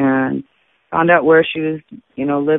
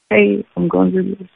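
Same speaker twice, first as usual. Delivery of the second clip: higher, bright decision in a changed voice; cheery announcement; 5 semitones higher than usual. Retold or imitated. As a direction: announce it happily, like a new plan. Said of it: "And, and I'm like".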